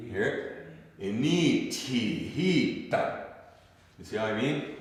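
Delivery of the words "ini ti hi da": slow, measured INI TI HI with a quick DA; short, quick ending. Shown as a demonstration. Teacher showing how the phrase ends, short and quick. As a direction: draw out Ini ti hi, then snip off da. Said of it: "It's short and quick".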